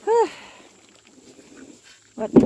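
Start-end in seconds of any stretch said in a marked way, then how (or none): 0.0-0.3 effort exhale. Real, not acted. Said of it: "Sorry for the grunting and groaning".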